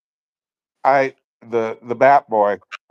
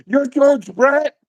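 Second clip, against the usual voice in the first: put-on much higher, slow amazed kid voice; awed kid; 4 dB louder, slower than usual. Imitating the autograph kid at the fence, high and slow. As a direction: squeak it like a stunned kid.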